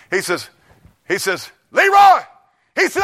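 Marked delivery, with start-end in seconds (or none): 1.7-2.2 louder, much higher, slow commanding bellow; hammed-up healer shouting the command; mock healing command.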